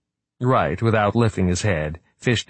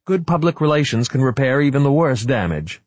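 forced cheer, pitched higher; desperately bright; 7 semitones higher, 4 dB louder than usual. Acted. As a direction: sell the hope, too brightly. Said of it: "in a desperately bright voice".

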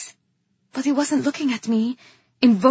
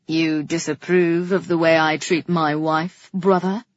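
low, pointed question; challenging king; 5 semitones lower, 4 dB louder than usual. A narrator's reading. King baiting his brother, challenging. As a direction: needle him as a lordly king.

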